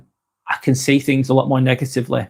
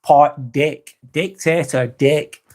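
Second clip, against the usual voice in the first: "dick" picked out and set apart in "Dictator"; stress on dick; much slower than usual. Shown as a demonstration. Explaining dictatorship to viewers, emphasis on "dick". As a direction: punch the syllable "dick" in "Dictator". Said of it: "Emphasis on the word".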